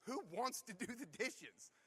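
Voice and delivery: mock sarcastic, drawn-out question; slow it down with dry sarcasm; imitating an incredulous, sarcastic comeback; Vince Vaughn. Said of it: "in his perfectly sarcastic tone".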